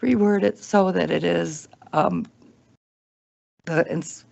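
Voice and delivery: losing her voice, hoarse and strained. Real, not acted. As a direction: talk through a worn-out, hoarse throat. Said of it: "I'm losing my voice for sure".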